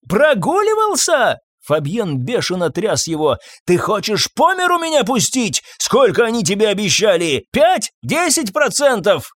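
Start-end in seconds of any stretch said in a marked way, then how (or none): 0.1-1.4 furious incredulous yell. Acted. Master to groom, incredulous furious yell. 3.7-9.3 raging interrogation. Acted. Master shaking the groom, raging questions.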